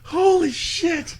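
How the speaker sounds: drawn out in disbelief; astonished murmur; slow stunned holy shit. Real, not acted. Reacting to dark joke.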